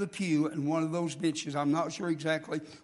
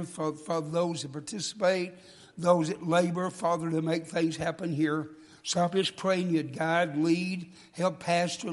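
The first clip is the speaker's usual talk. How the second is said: prayer. Acted. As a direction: pray humbly to the Father. Leads a prayer.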